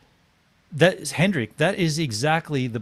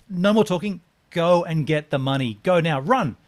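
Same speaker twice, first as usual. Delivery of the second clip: louder, higher barked orders; commanding; 4 semitones higher, 4 dB louder than usual. Retold or imitated. Sending the buyer to the cash machine, commanding. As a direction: order him off, brooking no argument.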